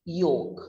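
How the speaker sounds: "yolk" as YOKE; silent L. Shown as a demonstration. Teacher repeating yolk after spelling it, silent L. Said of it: "Y O H K".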